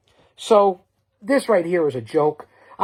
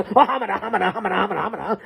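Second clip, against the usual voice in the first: Jackie Gleason stammer; 3 semitones higher, much faster than usual. Retold or imitated. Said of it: "that's what I say".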